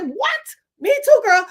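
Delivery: very high, loud excited shout; delighted surprise. Retold or imitated. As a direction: squeal with joy at the news. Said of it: "I said".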